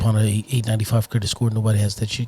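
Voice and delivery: low, fast hard sell; car salesman voice. Acted. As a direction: pitch it like a slick dealer. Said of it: "Listen to that car salesman voice".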